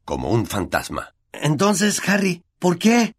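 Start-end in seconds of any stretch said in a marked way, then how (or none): 1.3-3.2 impatient. Acted. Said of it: "preguntó Ron impaciente".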